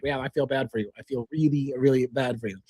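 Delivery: hammed-up sympathetic murmur; mock sympathy. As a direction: pretend to feel sorry, teasing. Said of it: "I started like".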